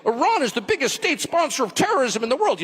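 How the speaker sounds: reciting a talking point. Retold or imitated. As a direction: parrot it like a memorized line. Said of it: "reading the talking point".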